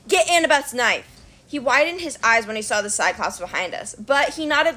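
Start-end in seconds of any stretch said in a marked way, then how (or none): 0.1-1.1 yelled order. Acted. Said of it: "I yelled".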